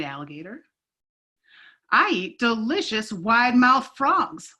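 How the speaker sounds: lively read-aloud with paced character lines; storybook read-aloud. Acted. Teacher reading a picture book to kids, animated. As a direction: tell the story to a circle of kids.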